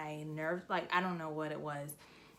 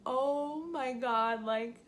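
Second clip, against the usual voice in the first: mild retold shock; 5 semitones higher, slower than usual. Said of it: "I just remember thinking".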